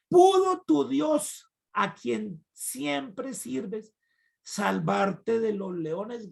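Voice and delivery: high, slow anxious cry that fades; king shouting. Retold or imitated. King calls to Daniel in the pit, slow anxious cry. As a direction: call down into the pit, drawn out. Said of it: "gritaba desde afuera el rey Darío".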